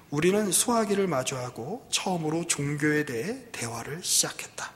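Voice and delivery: measured, expressive story reading; article read aloud. A narrator's reading. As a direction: read the article out as a narrated account. (기사를 낭독하듯 또박또박)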